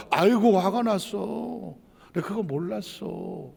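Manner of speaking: slow, drawn-out sympathy, softening at the end; soothing acknowledgement. Acted. Spouse acknowledging the other's anger, slowly soothing. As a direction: coo it slowly, fading into a soft apology. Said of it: "라고 인정해주면".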